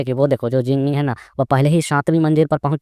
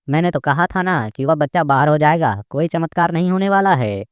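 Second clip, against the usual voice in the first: higher, drawn-out I-told-you-so; gloating; 4 semitones higher than usual. Acted. Old woman celebrating the boy's failure, gloating. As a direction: crow over it, rising in pitch.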